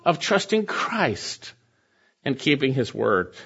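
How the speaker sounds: slow, weighted, trusting and keeping stressed; preacher spells out the sermon's theme word by word; slow emphatic title. Shown as a demonstration. Preacher announcing today's theme to the congregation, slow stress. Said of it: "we're gonna see today the blessing".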